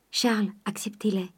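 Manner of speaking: soft whispered plea; urgent whisper. Acted. Eugénie offers Charles her purse, softly whispering. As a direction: press the gift on him in a whisper.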